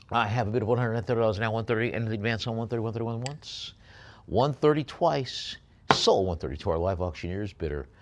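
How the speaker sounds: rapid auctioneer patter calling the price; auctioneer bid call. Acted. Auctioneer calling bids to online bidders, fast patter. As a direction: rattle off the bids like a live auction.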